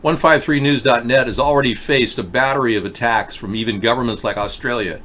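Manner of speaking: talking around a mouth guard; words a little thick from a mouth guard. Real, not acted. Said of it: "I am wearing a mouth guard".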